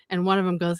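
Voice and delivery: ordinary talk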